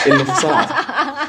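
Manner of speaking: amused, exasperated laugh as the words come out; laughing disbelief. Real, not acted. Telling the friend the computer froze, laughing.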